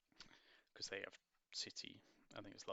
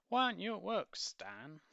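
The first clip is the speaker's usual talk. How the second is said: surprised mother; 11 semitones higher, 9 dB louder than usual. Acted. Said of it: "Missus Chivers".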